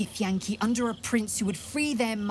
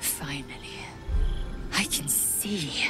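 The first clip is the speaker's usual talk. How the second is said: whispered; 5 semitones lower than usual. Acted. Quiet realization after defiance.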